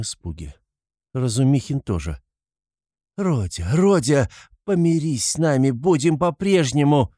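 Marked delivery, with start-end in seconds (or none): 3.2-7.1 high, pleading cry building up; exclaimed plea. A narrator's reading. Poor mother begs her son to make peace, crying out. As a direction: start contained, then cry out imploringly. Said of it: "воскликнула бедная мать".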